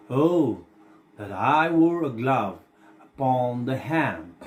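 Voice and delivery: slow, measured verse reading; dramatic recitation. Acted. Teacher gives the class an example of a monologue, measured recitation. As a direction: recite it line by line, drawing out the words with pauses.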